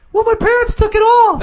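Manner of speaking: high, loud mimicked whine of an excuse; very high-pitched voice. Imitating a guy explaining his missing door, very high-pitched. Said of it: "a very high-pitched voice".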